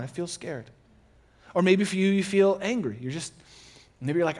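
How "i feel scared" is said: soft, dropping confession; quiet admission. Pretend. Pastor voicing a worried listener, quiet and falling. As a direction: let "I feel scared" fall away quietly.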